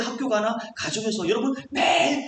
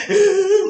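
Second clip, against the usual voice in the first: high, drawn-out pretend crying; mock wail; 8 semitones higher, 7 dB louder, much slower than usual. Worshippers crying at church, imitated wail. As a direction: imitate someone wailing in prayer. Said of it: "막 울고".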